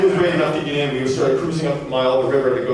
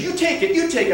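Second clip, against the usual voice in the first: high-pitched panic without much volume; mock frantic plea. Angler begs her partner to take the rod, mock panic. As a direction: imitate someone freaked out, voice shooting up. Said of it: "She's screaming".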